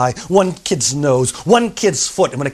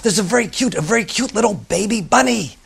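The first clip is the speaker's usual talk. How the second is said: put-on high eager child voice; excited girl; 6 semitones higher than usual. Girl calling to her teacher, high and eager. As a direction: point it out eagerly.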